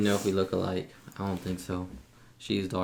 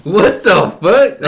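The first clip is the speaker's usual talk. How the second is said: loud, slow startled outburst; surprised; 10 semitones higher, 15 dB louder, much slower than usual. Real, not acted. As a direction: blurt it out in shock. Startled by sister's laugh.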